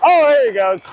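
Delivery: high-pitched cheer for a teammate; excited cheer. Real, not acted. Player watching Josh get the puck, excited. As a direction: call it out as he takes off.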